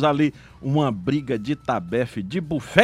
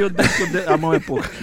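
laughing; much faster than usual. Real, not acted. Laughing at the insults.

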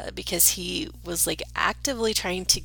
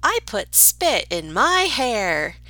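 put-on little girl voice; 4 semitones higher, 7 dB louder, slower than usual. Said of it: "the little girl was telling".

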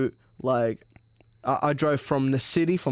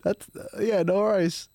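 mock polite reply; 6 semitones higher than usual. Retelling talks with Nick, mock polite higher reply. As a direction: act like you've given up waiting for an answer. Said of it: "You're like".

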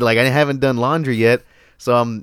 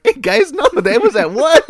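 mock sheepish announcement; 13 semitones higher, 3 dB louder than usual. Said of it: "and I'm like".

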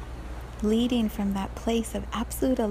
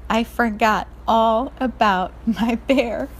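put-on dismayed little girl; 3 dB louder, slower than usual. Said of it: "She starts crying".

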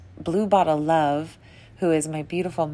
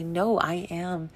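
soft affirmation; 3 dB quieter than usual. Retold or imitated. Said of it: "pull that back and say".

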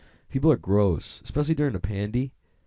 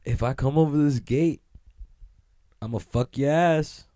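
awkward tough threat; 5 semitones higher than usual. Pretend. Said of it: "I just start saying some stupid".

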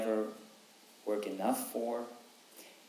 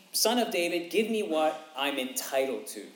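higher, louder entitled demand; demanding beggar; 4 semitones higher, 4 dB louder than usual. Retold or imitated. Beggar demanding his due from Jesus, higher and louder. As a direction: claim it as owed, pushing hard. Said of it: "He's not saying".

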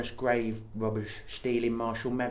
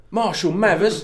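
Cockney; 9 semitones higher, 6 dB louder than usual. Pretend. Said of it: "It's like an exclamation".

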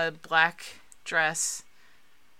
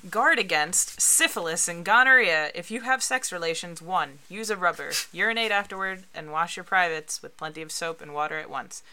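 public service announcement; 5 dB louder than usual. Shown as a demonstration. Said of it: "So it says".

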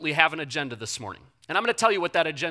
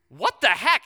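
louder, startled outburst retold; startled reaction; 6 dB louder, slower than usual. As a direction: act out a startled double take. Startled at finding hundred-dollar bill.

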